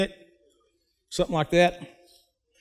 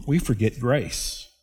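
softer echo; 4 semitones lower, 6 dB quieter than usual. Real, not acted.

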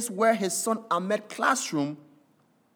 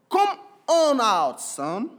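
tearful joy; 3 semitones higher, slower than usual. Acted. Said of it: "he said with an excitement and emotion of tears and joy".

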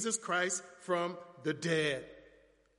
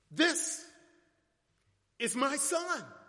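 Father affirming; 4 semitones higher, slower than usual. Acted. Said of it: "The Father affirms".

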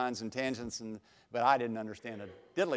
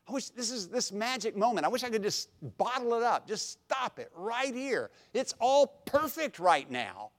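wistful wish; 8 semitones higher than usual. Retold or imitated.

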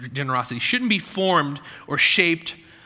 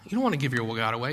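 rushed aside; 4 semitones lower, 4 dB quieter, much faster than usual. Shown as a demonstration. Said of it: "If you trust in money".

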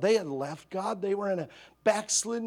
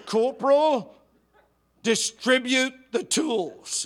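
sergeant order; 6 semitones higher, 6 dB louder, slower than usual. Retold or imitated. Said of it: "the sergeant goes".

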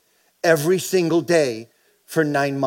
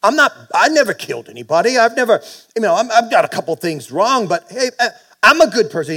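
mild imitated protest; 5 semitones higher than usual. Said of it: "He goes".

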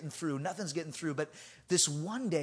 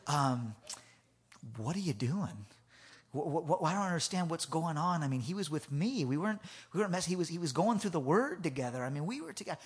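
calm; 3 dB quieter than usual. Retold or imitated. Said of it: "Very calm I was being".

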